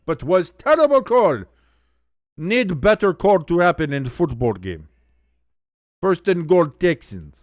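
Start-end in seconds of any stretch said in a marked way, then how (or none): 0.0-4.9 mock Eastern European accent with the little words dropped; hammed-up Eastern European complaint about the refs; a playful Eastern European accent, higher-pitched. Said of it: "I turn Eastern European when I say that".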